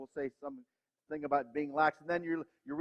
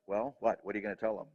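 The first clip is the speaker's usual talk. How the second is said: inner voice; 8 semitones lower than usual. Retold or imitated. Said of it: "little voice inside says".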